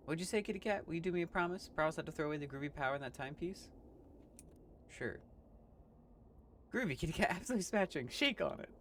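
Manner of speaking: high, excitable hip cat voice. Acted. Cat sealing the promise, high and excited. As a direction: sell the deal with a grin.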